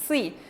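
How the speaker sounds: "Sui" with a tense, pressed s. Shown as a demonstration. Teacher repeating Korean double s, extra force on "Sui". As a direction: push slightly on the s of "Sui". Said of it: "Como un poquito de más fuerza".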